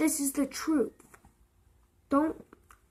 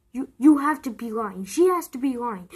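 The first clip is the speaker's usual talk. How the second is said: upset disbelief; 2 semitones lower, 5 dB louder than usual. Retold or imitated. Kid refusing the bad news.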